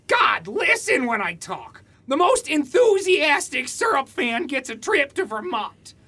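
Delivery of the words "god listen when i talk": exasperated outburst; annoyed shout. Acted. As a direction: snap it out, fed up. Nathan snaps at the voice.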